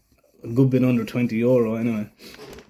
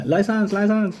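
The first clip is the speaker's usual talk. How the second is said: higher, clipped mock-officer demand; imitating traffic cop; 8 semitones higher than usual. Thai policeman demanding the license, mock official voice. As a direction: bark it out like a bored cop.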